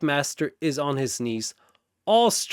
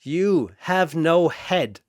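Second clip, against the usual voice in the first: calmly; 3 semitones higher, slower than usual. Acted. Anna answering Sephiroth calmly and slowly. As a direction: say it unbothered. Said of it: "Anna says calmly".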